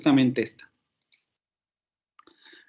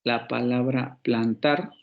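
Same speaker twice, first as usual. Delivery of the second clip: slow demo; 3 semitones lower, slower than usual. Shown as a demonstration. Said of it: "la dividimos".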